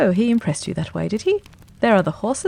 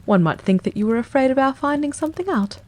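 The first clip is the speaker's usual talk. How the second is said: cool; 5 semitones higher than usual. A narrator's reading. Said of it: "said Holmes coolly".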